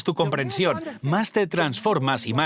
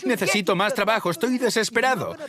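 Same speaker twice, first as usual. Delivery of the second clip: desperate plea; 7 semitones higher than usual. Retold or imitated. Debtor begging the boss for work, desperate plea. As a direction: beg like you are out of options.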